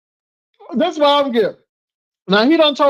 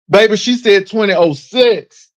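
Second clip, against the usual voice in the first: normal talking voice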